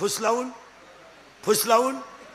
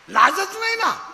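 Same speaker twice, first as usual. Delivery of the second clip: mocking scorn; 9 semitones higher, 4 dB louder, slower than usual. Mocking shameless girls.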